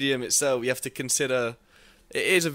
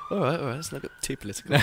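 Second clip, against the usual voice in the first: laughing; 4 dB quieter, faster than usual. Real, not acted. Laughing off politics.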